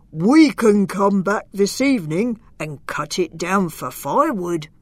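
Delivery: a hint of a big brute planning; giant. Giant plotting to chop the tree, lightly voiced. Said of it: "said the other".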